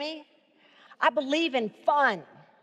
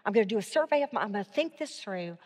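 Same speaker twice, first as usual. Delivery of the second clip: thinking aloud; 3 semitones lower, 4 dB quieter, faster than usual. Shown as a demonstration. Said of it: "you're trying to think".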